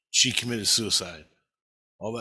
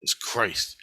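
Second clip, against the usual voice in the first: slow solemn; 3 semitones lower, much slower than usual. Retold or imitated. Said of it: "he goes".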